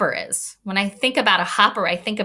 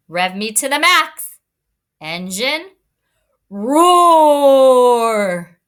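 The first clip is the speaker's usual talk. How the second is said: high, loud yell with a long roar at the end; truck yells; 4 semitones higher, 5 dB louder, slower than usual. Retold or imitated. Teacher quoting the full truck yelling for gas, loud mock yell. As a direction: shout the orders, stretch out roar. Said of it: "But then he yells".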